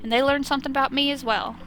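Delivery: Southern dad voice, lightly done; measured fatherly advice with a hint of Southern; bad Southern accent. Cop explains arguments with his kids, lightly Southern-accented. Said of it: "a bad Southern accent".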